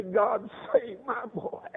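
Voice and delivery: slow, drawn-out tearful blessing; tearful motherly prayer. Retold or imitated. A mother picking up her little boy in her arms, tearful prayer. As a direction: imitate a mother praying over her child.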